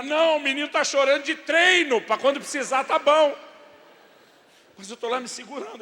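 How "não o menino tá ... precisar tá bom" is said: high, very loud exasperated yell; sarcastic shout. Acted. Dad longing to scream at wife's silly question, sarcastic yell. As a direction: let the bottled-up sarcasm explode. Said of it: "Eu tenho vontade de gritar".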